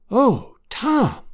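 high, voiced exclamation of joy; happy-tearful aunt, pitched well up; overcome with happiness. A narrator's reading. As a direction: breathe out his name in tearful wonder, high-pitched. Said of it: "whispered Aunt Sally".

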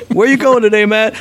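high-pitched put-on chirp; playful acted questioner. Neighbour asking Matt about his day, playful acted voice. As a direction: ask it in a high, playful character voice.

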